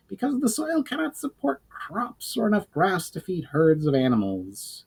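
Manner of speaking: goblin voice. Acted.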